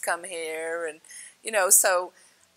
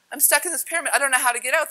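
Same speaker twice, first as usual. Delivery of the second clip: high, louder fretting; mock panic; 7 semitones higher, 5 dB louder, much faster than usual. Retelling being stuck in the pyramid, high mock panic. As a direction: raise the pitch as if trapped. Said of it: "the next thing I'm like".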